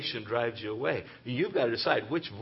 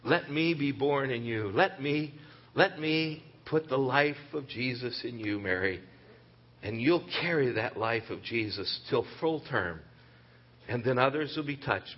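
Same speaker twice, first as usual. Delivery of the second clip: gentle inviting voice. Acted. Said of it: "the voice that says".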